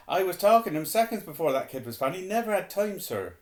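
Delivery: high, loud, pressing testimony; Hagrid, urgent. A narrator's reading. Hagrid vouches for Harry to the headmaster, urgent. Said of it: "said Hagrid urgently".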